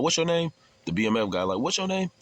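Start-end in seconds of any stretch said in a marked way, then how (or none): 0.0-0.5 high, pushy demand for a name; mock demanding. Guard demanding the inmate's name, high mock demand. 1.6-2.1 high mocking parrot of the guard; mocking echo. Inmate mimicking the guard's question back at him, high mocking echo.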